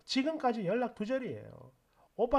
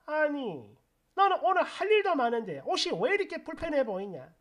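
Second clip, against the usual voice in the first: higher, sharp-tongued mother-in-law nagging; 4 semitones higher, 3 dB louder than usual. Retold or imitated. Mother-in-law nitpicking the new wife's clothes, higher nagging voice. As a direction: needle her like a fussy mother-in-law.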